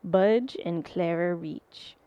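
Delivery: measured, mildly spooky story reading; a touch of creepy narrator; creepy storyteller. Acted. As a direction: tell it like a ghost tale, lingering on key words. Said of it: "a creepy voice, like a good storyteller".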